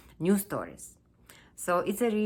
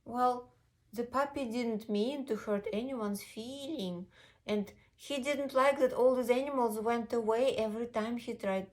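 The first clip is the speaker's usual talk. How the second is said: put-on children's storytelling; 6 semitones higher than usual. A narrator's reading.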